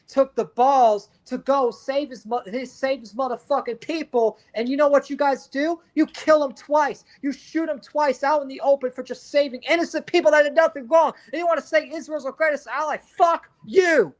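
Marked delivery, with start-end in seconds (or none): 4.5-14.1 rising, heated rant ending in a curse; emotional outburst. Real, not acted. Angry at Israel over the priest killed in Lebanon, emotional outburst. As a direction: let the anger build until it bursts. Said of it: "Sorry, I got a little emotional".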